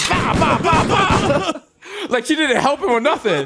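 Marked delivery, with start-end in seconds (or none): 0.1-1.5 a light, higher Jamaican lady patter; lightly voiced Jamaican lady babbling. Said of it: "Jamaican lady".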